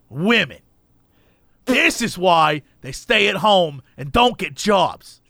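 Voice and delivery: slow, lightly put-on disgruntled voice; grumbling stranger. Stranger complaining to a bystander about the barista, mock disgruntled. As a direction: imitate a man complaining, drawn out. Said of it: "he looks at me and he goes".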